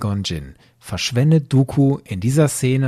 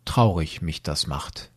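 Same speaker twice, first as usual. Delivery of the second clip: lower, softer, a hint of Yoda with his twisted word order; lightly put-on sad little Yoda line; mock Yoda voice; 7 semitones lower, 5 dB quieter than usual. Ehepartner sagt Yoda-artig nur. (leicht angedeutete Yoda-Stimme, tiefer und leiser)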